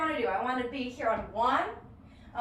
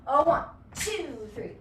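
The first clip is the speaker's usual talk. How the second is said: dance count-in. Shown as a demonstration. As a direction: count the class in with a driving beat. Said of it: "that's what I want you to do".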